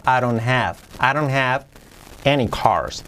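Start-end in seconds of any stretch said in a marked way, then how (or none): 0.1-1.7 "I don't have" with no T in "don't"; dropped T. Shown as a demonstration. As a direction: run "I don't have" together, tapped D and silent T. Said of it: "La T la omito". ("I don't have" sin la T)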